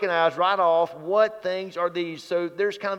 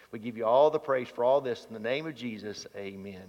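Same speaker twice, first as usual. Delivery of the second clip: subdued public prayer, lower than preaching; 6 semitones lower, 6 dB quieter than usual. Real, not acted. Preacher asks God for words to speak, subdued prayer. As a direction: lead a quiet, earnest prayer.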